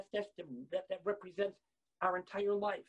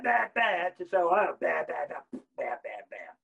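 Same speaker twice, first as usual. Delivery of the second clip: broken blasts; 3 semitones lower, 5 dB louder, slower than usual. Retold or imitated. Imitates broken shofar blasts.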